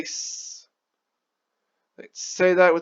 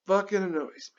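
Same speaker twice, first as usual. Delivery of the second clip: unvoiced, repeating the gripe to himself; whispered annoyance; 2 semitones higher, 7 dB quieter, faster than usual. Real, not acted. Vlogger to himself, whispered grumble. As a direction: hiss the gripe to yourself. Repeats complaint under breath.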